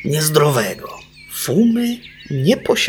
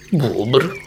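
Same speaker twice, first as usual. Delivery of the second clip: a hint of a grumpy beaver; mild beaver grumble. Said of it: "mruknął bóbr".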